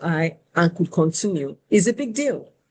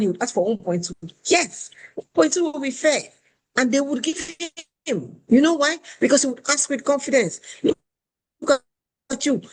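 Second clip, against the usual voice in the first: much higher, ranting scolding imitation; lecturing recruiter; 8 semitones higher than usual. Recruiter lecturing a woman on asking for more, ranting. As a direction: rant at her like a fed-up mentor. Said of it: "She went on and on and on".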